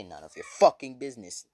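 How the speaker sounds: loud burst on the swear word; angry retort. Acted. Teachers rebuff All Might's question, angry retort. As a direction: snap it back with a punched expletive.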